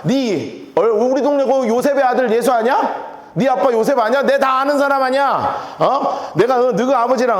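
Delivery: needling, punctuated with challenging grunts; sarcastic heckling. Acted. Townspeople belittling Jesus to his face, sarcastic heckling. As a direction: taunt him like a neighbour who knows his family. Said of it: "지금 빈정되는 거예요".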